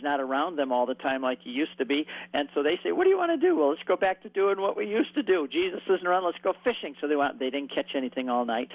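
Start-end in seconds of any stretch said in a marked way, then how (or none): 2.9-7.0 a higher, lightly voiced disciple at a loose end; disciples wondering. Disciples after Easter deciding to go fishing, lightly voiced and higher. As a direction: play the restless disciple suggesting they go fishing.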